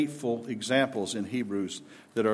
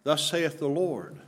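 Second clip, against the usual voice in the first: slow, emphatic declaration; zealous proclamation; 2 semitones higher than usual. Shown as a demonstration. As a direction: proclaim it as God's own word, slowly. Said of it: "with zeal and with, with emphasis".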